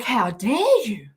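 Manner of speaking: hammed-up indignation at the drink; playful fake fury, rising on the second line; mock outrage. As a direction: scold the kombucha like a betrayer. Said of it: "I was like".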